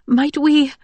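high, hesitant frightened voice; gulping, frightened plea. A narrator's reading. Frightened mother begging the emperor for leave, high and timid. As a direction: ask timidly, trying to gather yourself. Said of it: "Audrey gulped".

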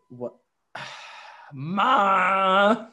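stunned gasp then a loud high wail; a betrayed little kid crying out; outraged toddler. Retold or imitated. Toddler betrayed by his mom's trick, crying out high and loud. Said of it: "he was like".

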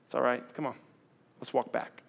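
soft, kind reassurance; encouraging. Shown as a demonstration. Jesus to sinking Peter, soft encouragement. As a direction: lift him up gently. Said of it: "I think he said".

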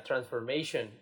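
put-on "transformation" as if it had a written accent on its last O; misplaced English stress. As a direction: imitate a teacher putting the accent on the last O of "transformation". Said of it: "y así el acento en la O".

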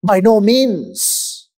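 drawn-out, firm "By no means"; slow, emphatic refusal on "By no means"; emphatic denial. Retold or imitated. Preacher giving Paul's response to the objection, emphatic "By no means". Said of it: "The response is an emphatic one".

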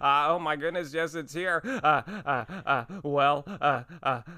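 halting, stammering Goldblum voice building to a sneeze; performing the co-written Goldblum sneeze bit, halting and stammering; Jeff Goldblum impression. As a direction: stutter through the wind-up, then the sneeze. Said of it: "where Jeff Goldblum's sneezing, and he goes".

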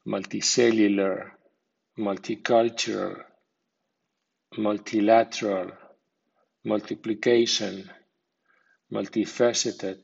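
secondary stress on multi in multicellular, multicultural, multilateral, multiplication, multifaceted; multi-CULTURAL pattern on each word; medium stress on prefix. Shown as a demonstration. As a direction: lighter multi, main stress later, as in multi-LATERAL. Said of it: "con acento medio".

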